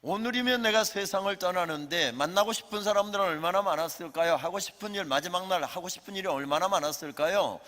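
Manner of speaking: emphatic preaching. Acted. Rhetorical imagined thoughts.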